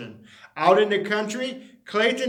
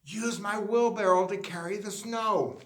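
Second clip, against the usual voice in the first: much softer, secretive uncle voice; whispered advice; 8 dB quieter than usual. A narrator's reading. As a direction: hush it into his ear. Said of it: "Vernon whispered in his ear".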